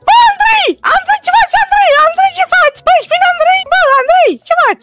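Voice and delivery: calling out to Andrei. Pretend. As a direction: holler the name over and over.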